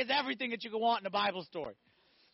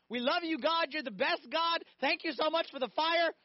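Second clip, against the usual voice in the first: mock praise; 6 semitones higher than usual. Sarcastic imagined prayer from the furnace.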